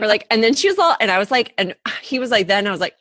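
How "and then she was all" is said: put-on Orange County valley girl. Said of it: "I'm from Orange County".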